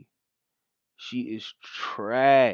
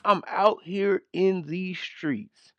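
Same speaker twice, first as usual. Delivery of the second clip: higher, slow sarcastic echo; mocking repeat; 6 semitones higher, slower than usual. Commentator echoing the vice president's line, sarcastic. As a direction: drawl it back to mock her. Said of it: "parrots clip".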